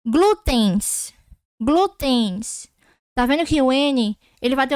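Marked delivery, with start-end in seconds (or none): 0.1-2.7 Glútens with a nasal en ending in an I glide; teacher sounding out Glútens; demo pronunciation. Shown as a demonstration. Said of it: "Olha o som".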